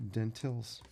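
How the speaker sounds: "dentils" said clearly, stressing the "til" ending; saying dentils. Shown as a demonstration. Correcting viewers who hear dentures, careful "dentils". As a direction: spell out "dentils" so it isn't heard as dentures. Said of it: "Not dentures".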